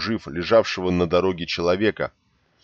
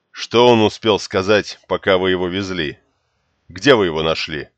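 urgent demand; 5 dB louder than usual. Acted. Urgent questioning of riders.

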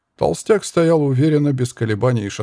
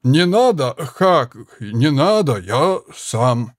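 loud, distinct insistence; clear and loud; much slower than usual. Acted. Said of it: "отчётливо и громко произнёс".

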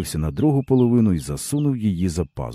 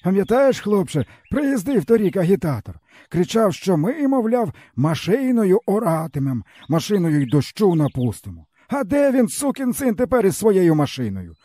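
higher, bitter village man's voice; weary peasant man; 13 semitones higher than usual. A narrator's reading. Stepan tells the boy his woes, bitterly. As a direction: speak as a broken old peasant.

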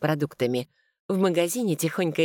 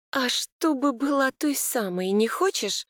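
higher, slow, caustic question; 9 semitones higher than usual. A narrator's reading. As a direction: ask it with a sting. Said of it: "Попыталась спросить едко".

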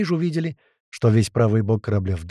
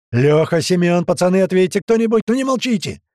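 loud calls climbing ever higher; desperate yelling; 8 semitones higher, 6 dB louder than usual. Acted. Hobot calls his men on the radio, desperate yelling. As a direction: shout for any answer, pleading. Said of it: "начал орать уже в неё".

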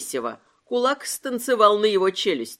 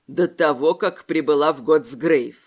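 low growl, louder; growled question; 8 semitones lower, 3 dB louder than usual. A narrator's reading. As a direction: growl it out with menace. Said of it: "прорычал Микелетто".

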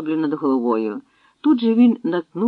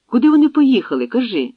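loud, higher shout of a demand; 8 semitones higher, 7 dB louder than usual. Acted. Torturer shouts at the old woman for an answer, loud demand. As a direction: force the answer out of her.

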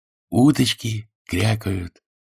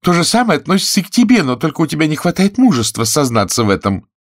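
fast, high, loud challenge; defiant; 8 semitones higher, 5 dB louder, faster than usual. A narrator's reading. Fanny accusing Freddie of cowardice, defiant and fast. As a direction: keep pushing, defiant and quick.

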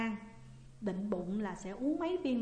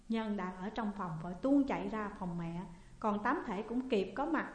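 ordinary delivery, nothing marked

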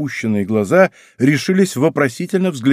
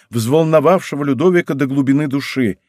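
ordinary delivery, nothing marked

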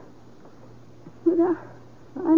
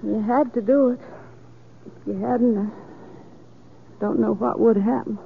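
dazed and quiet; 6 semitones lower, 7 dB quieter than usual. Acted. Calm after hysteria, soft low.

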